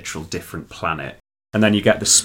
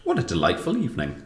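happy sigh; 3 semitones higher than usual. Acted. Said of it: "sighed the witch happily".

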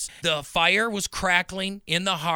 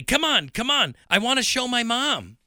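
put-on high, louder boy urging come on; excited; 6 semitones higher, 3 dB louder than usual. Boy hurrying William to show his mom, excited. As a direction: tug him along, eager to show mom. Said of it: "David said excitedly".

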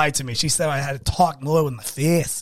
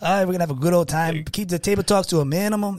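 mock Mexican accent. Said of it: "it gets Speedy Gonzalez".

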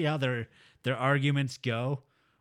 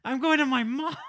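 laughing mock wife; 9 semitones higher, 4 dB louder than usual.

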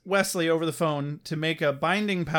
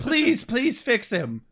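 mock pleading; 5 semitones higher, slower than usual. Dad begs Angel for help.

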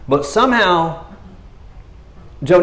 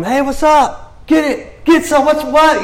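high, slow, louder redneck jeering; redneck taunting; 4 dB louder, slower than usual. Retold or imitated. Redneck Philistines jeering from the hilltop, high brash taunt. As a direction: brag down the hill like a cocky redneck.

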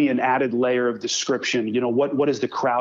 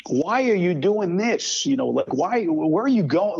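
imitating blunt mentor; 7 semitones higher than usual. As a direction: grill the student like a tough coach. Mentor grilling a student on tape.

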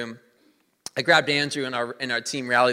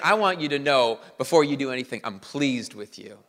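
tender fatherly blessing. Shown as a demonstration. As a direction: speak it like a father blessing his son. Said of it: "the Father is saying".

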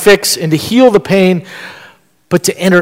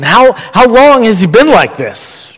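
higher-pitched, pressing question; lightly acted, raised-pitch query; 5 semitones higher than usual. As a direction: ask it with a touch of surprise. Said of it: "I'm a little bit surprised".

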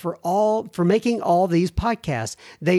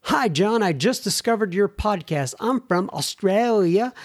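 higher-pitched, amateurish attempt at Australian; bad Australian accent; 4 semitones higher than usual. Host reading a listener's letter from down under, bad Australian accent. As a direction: have a game but clumsy go at Australian. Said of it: "it's a bad accent".

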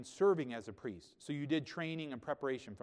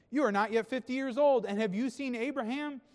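high, raised-voice mock disbelief; incredulous challenge; 10 semitones higher, 7 dB louder than usual. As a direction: throw it out as a scoffing challenge. Preacher voices the Jews' challenge.

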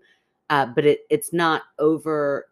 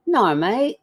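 higher-pitched Australian "No, mate"; Australian accent; 6 semitones higher than usual. Shown as a demonstration. Cohost trying the phrase, Australian accent. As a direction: copy an Australian, "No" as "naur". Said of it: "you were really good at it".

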